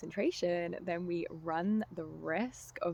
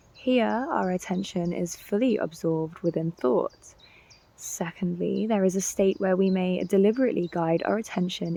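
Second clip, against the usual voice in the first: louder, measured read of a teaching; scripted teaching narration; 10 dB louder than usual. Real, not acted. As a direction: deliver it as a prepared lecture, projected. Reads prepared teaching passage.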